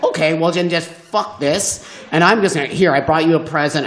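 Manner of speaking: put-on sulking like a boy denied candy; sulky little boy. The comic sulking at the woman, petulant and rushed. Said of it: "Like a little boy who's not gonna get his candy".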